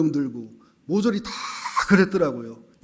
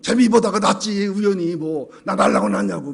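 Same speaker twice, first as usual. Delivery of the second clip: higher mock backtalk from a child; acted insolent retort; 4 semitones higher, 5 dB louder than usual. Worse-behaved child talking back to parents, mock insolent retort. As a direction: play the cheekier kid talking back. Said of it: "또 심한 놈은".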